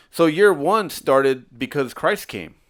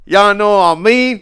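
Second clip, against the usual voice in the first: very high, loud squeaky cartoon-mouse voice; Mickey Mouse; 9 semitones higher, 12 dB louder than usual. Showing off to a podcast co-host, high Mickey Mouse impression. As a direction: put on a piercing cartoon mouse falsetto. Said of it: "your Mickey Mouse impression is actually pretty spot on".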